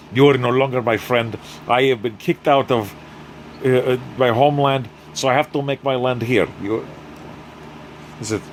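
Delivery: lightly put-on Russian accent, whiny; a hint of a sulky Russian gangster. Anatoly tells Oliver he has no honor, light Russian accent. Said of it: "he's all about whining and accent now".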